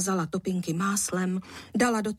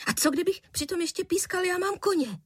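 put-on higher cheeky child's voice; a playful boy teasing his father; 11 semitones higher than usual. A narrator's reading. Boy's voice in story. (drze, vysokým dětským hlasem)

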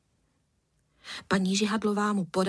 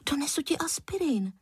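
lightly voiced boy; 7 semitones higher than usual. A narrator's reading. Boy's eager offer.

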